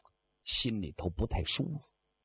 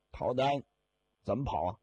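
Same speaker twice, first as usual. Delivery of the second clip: usual speaking voice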